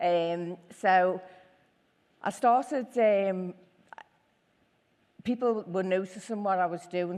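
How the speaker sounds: loud, very nervous, halting, stumbling speech. Telling an audience how the business started, dead nervous. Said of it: "I am dead nervous".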